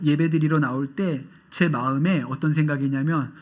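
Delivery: ordinary talk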